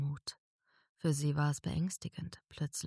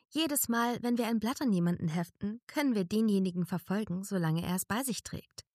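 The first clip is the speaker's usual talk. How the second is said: higher, small fairy voice explaining; little fairy Daisy; 5 semitones higher than usual. A narrator's reading. Daisy explaining the leaf to narrator, small fairy voice. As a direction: play the tiny creature explaining eagerly. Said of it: "erklärte sie".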